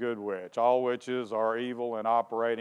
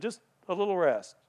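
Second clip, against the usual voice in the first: drowsy murmur; 2 semitones higher, 5 dB quieter than usual. Retold or imitated. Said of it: "she said".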